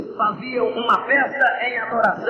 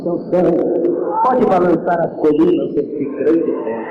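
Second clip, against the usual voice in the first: God answering weeping Samson, lower and solemn; 5 semitones lower than usual. Acted. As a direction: speak as God, calm and weighty. God grants strength.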